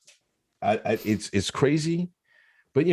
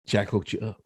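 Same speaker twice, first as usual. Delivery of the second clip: dropped low and softer, a sly aside; 7 semitones lower, 6 dB quieter than usual. Pretend. Teasing the blue check winner, a low sly aside. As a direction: mutter it low and knowing.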